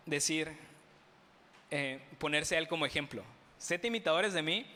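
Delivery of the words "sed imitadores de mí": lightly mocking, a touch smug. Shown as a demonstration. Preacher repeats the verse to the congregation in mild mockery. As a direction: tease the words a little, half-joking. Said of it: "Lo digo en tono de burla".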